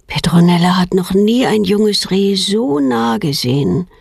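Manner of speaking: ordinary delivery, nothing marked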